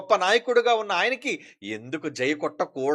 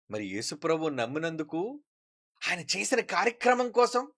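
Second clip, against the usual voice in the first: ordinary talk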